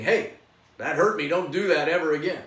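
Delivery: loud, firm boundary-setting; firm speaking up. Shown as a demonstration. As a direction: say it clearly and strongly. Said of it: "speaking up and saying".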